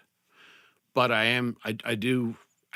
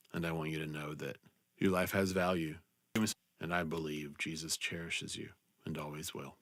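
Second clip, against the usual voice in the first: softer and lower, gentle and sincere; sincere apology; 4 semitones lower, 5 dB quieter than usual. Real, not acted. Host apologizing to marginalized listeners, softly and sincerely. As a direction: quietly offer forgiveness and comfort.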